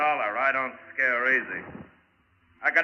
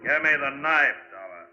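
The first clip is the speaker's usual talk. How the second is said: menacing demand. Acted. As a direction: lean on him with the gun. Villain threatens with a gun.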